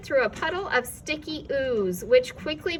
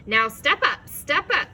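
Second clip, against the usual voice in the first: recommending; 4 semitones higher, 7 dB louder than usual. A narrator's reading. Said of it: "it recommended".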